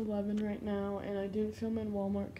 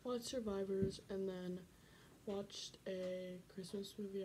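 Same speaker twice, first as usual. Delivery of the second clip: whispering; 11 dB quieter than usual. Real, not acted. Late night, people sleeping.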